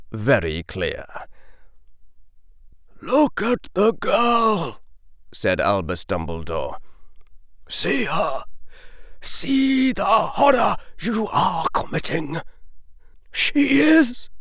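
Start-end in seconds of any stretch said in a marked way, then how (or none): 3.0-12.4 put-on grave old wizard. A narrator's reading. Dumbledore pleads with council. 13.3-14.3 voice breaking. A narrator's reading. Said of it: "the old wizard's voice broke".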